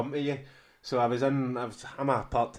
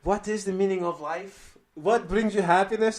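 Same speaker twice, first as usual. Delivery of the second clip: quoting the student; 9 semitones higher, 8 dB louder than usual. Retold or imitated.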